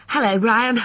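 put-on high boyish greeting, mildly kind; kindly. A narrator's reading. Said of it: "said Alexander kindly to his father".

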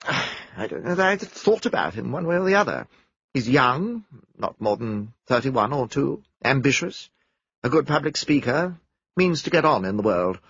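a hint of a composed, dismissive witness; lightly voiced crisp young woman. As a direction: answer briskly, without warmth. Narrator voices Miss Plenderleath.

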